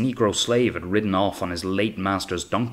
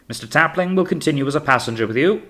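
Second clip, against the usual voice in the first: high, raised captain's voice; calling orders; 7 semitones higher, 4 dB louder, faster than usual. A narrator's reading. Captain tells officer about his passenger, calling down. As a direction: call down one more order.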